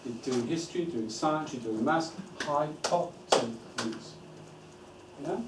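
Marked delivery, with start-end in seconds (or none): 2.4-4.1 syllable by syllable. Shown as a demonstration. Clapping out subject jargon words.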